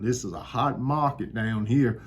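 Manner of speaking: put-on a light Southern accent, hot market down here. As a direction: say it the Southern way, easy and proud. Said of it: "let me say it like the Southern".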